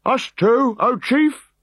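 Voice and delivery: high, loud meek question; timid bearer. A narrator's reading. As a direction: ask it sheepishly. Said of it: "inquired the shield-bearers".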